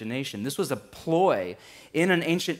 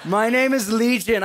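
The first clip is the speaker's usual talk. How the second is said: louder, higher demon declaration; louder demon try; 8 semitones higher, 7 dB louder than usual. Acted. Preacher retrying the demon line, louder and higher. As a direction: push it out loud and high. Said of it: "I have such a wussy, like, musician voice".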